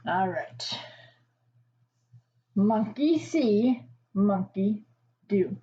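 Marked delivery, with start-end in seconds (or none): 2.5-5.6 slow title read. Shown as a demonstration. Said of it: "reading the title slowly".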